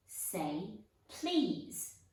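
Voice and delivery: teasing. Acted. Peeves teasing Filch.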